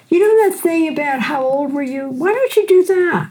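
lightly voiced friend urging her on; eager friend voice. Friend urging her to teach law students, lightly voiced and eager.

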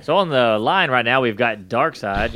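slow, drawn-out club MC intro; stripper announcer voice. Acted. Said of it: "He had his stripper announcer voice just kicked in".

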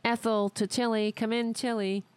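lightly voiced psychic call; mock medium calling a spirit; seance medium. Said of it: "pretending to be a psychic".

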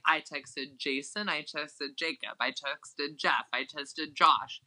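slow, drawn-out listing of names; each name dragged out, one by one; mock Leah slowly listing the men she texted. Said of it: "So she's like".

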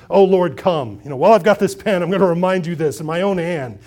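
loud, forceful proclamation; emphatic outburst. Acted. Paul grabs the pen to add lines, loud and insistent. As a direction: push it out loud, as if compelled to add it. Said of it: "he can't help himself".

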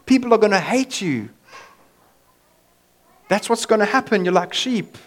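loud, high, hammed-up upbeat delivery of grim news; mock-cheerful motivator Jesus; cheesy pep-talk Jesus. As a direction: sell the bad news like a game-show host. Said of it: "worst motivational talk Jesus ever gave".

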